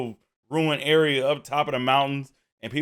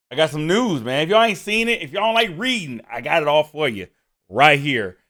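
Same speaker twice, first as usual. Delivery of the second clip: just bit tongue; 3 semitones higher than usual. Real, not acted. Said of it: "I bit my tongue, so, you know, a little slurred in speech".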